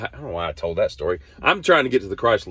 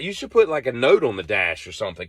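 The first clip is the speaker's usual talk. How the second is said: annoyed advice; 2 semitones higher than usual. Retold or imitated. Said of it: "And I'm like".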